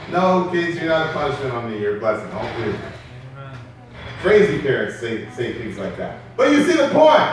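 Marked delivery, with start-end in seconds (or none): 0.1-2.7 reassuring aside. Real, not acted. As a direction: drop into a quiet, lower fatherly aside. Reassuring aside to own kids.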